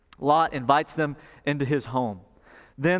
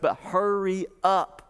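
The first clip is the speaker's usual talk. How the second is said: higher, drawn-out urging; urging haste; 4 semitones higher, slower than usual. Retold or imitated. Angels granting Lot's request, drawn-out urging. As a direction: stretch it out as a pointed warning.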